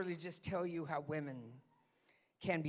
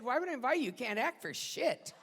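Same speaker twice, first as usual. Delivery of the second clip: loud, raised-pitch comeback, easing slightly; staged yelling; 5 semitones higher, 3 dB louder than usual. Acted. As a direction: fire back in a mock quarrel. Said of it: "start yelling".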